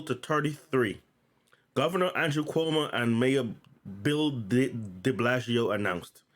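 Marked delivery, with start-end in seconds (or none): 3.2-5.7 stumbling over the name de Blasio; halting stutter on a surname. Real, not acted. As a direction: trip on "de" and restart it. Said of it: "I'm just stuttering".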